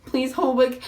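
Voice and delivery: loud, high mock wail; bawling. Friend begging for help on the phone, hammed-up bawling. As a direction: wail it like an over-the-top sobbing caller. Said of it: "she's bawling".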